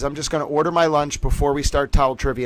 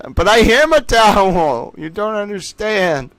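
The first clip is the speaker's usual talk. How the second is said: mock insistence; 7 semitones higher, 6 dB louder, slower than usual. Insisting playfully she's a towel.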